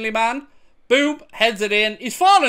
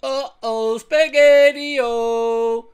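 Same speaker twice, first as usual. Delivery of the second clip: mock uh-oh; 3 semitones higher, much slower than usual. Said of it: "Ten Hag sitting there going".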